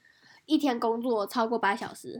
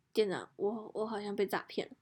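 softer, fast hushed admission; timid confession; 8 dB quieter than usual. Retold or imitated. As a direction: tell the manager sheepishly. Timidly telling store manager. (小声心虚地说)

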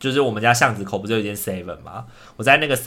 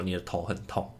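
inner command; 4 semitones lower, 14 dB quieter than usual. Retold or imitated. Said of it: "大脑指令是告诉我".

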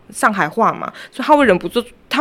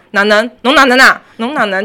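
rising louder Shanghainese challenge; mock quarrel in Shanghainese; 4 dB louder than usual. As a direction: pick a fight in Shanghainese. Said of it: "上海人吵架很好笑".

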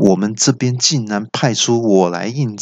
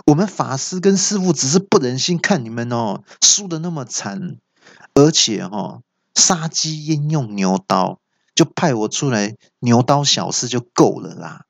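indignant outburst; 2 semitones higher than usual. Acted. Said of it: "气到大叫说".

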